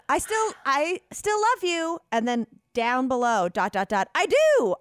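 pausing Jesus voice with a big high "I do"; dramatic Jesus voice. Retold or imitated. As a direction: read it like a dramatic love note. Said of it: "the way it said".

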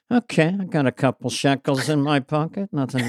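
lightly voiced soft-spoken satirist; understated impression of a mellowed comic; Dennis Miller. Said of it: "Dennis now is sort of soft-spoken".

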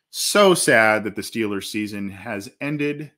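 drawn-out, slow mock sorrow; sarcastic. Real, not acted. Sports host mocking a rival's exit, sarcastic. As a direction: lay on the fake sympathy slowly. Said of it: "I say that sarcastically".

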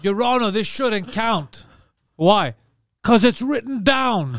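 mock lawyer. Mock courtroom plea.

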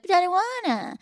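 put-on playful baby-talk pout. Shown as a demonstration. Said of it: "we do a little baby talk".

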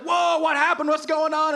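high-pitched excited questioning; excited crowd. Acted. Crowd asks the man leaving the sanctuary, excitedly. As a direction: burst out as an astonished, curious crowd.

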